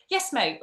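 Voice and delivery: "mate" with no audible T at the end; casual Essex "mate", T swallowed; acted-out reply, "mate" ending like "May"; dropped T. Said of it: "like you can't hear the T sometimes".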